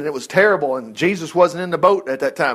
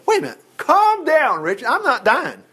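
calming himself down; 8 semitones higher than usual. Retold or imitated. Calming himself about a bump.

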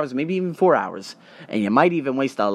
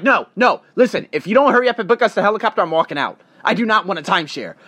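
stern refusal; 5 semitones higher, 3 dB louder, faster than usual. Retold or imitated. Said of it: "She was so stern".

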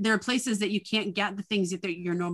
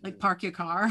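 New England accent. Shown as a demonstration. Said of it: "I think it might've been park".

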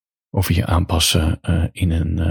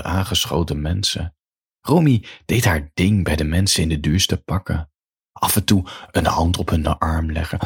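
measured read-aloud storytelling with paused phrases; story narration. A narrator's reading. Author reads a bedtime story to listeners, measured narration.

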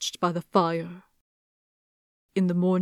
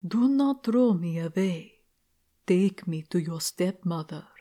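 dull voice; 3 dB quieter than usual. Acted. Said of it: "a dull voice came from the skull".

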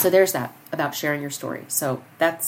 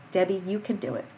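dad's encouragement; 3 dB louder than usual. Retold or imitated. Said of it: "My father's voice is what I hear".

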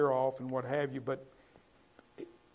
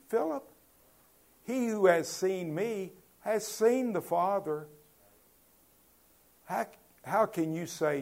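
Jesus' gentle rebuke; 5 semitones higher, 5 dB louder than usual. Acted.

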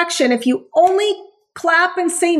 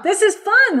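voicing the dog; 7 semitones higher than usual. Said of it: "That's all you're telling your dog".

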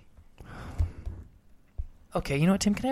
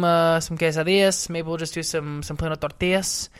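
put-on Spanish accent; 5 dB louder than usual. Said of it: "That makes me crazy".

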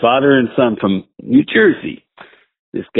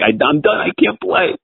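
mock distress; 7 semitones higher than usual. Acting out panicked golfer quitting.

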